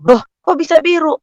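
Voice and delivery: high-pitched acted surprise; startled question. Mother reacting to nurse about blue baby, startled question. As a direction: jump up in pitch, taken aback.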